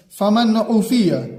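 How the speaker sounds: slow recitation, clear नून; slow clear reading of फमन उफिया; izhar recitation. Shown as a demonstration. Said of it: "इजहार".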